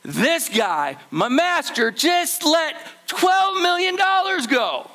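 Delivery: giddy servant who can't believe his luck; excited news. Retold or imitated. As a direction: burst out with unbelievable good news.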